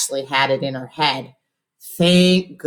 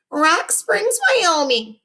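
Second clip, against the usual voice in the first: spit out; much slower than usual. A narrator's reading. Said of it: "he spit out like his face was going to explode".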